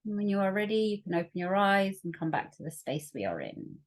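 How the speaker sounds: calm meditation guide, long pauses between phrases; guided meditation. Acted. Facilitator leading workshop listeners into their breath, guided meditation. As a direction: ease them gently inward, leaving room to breathe.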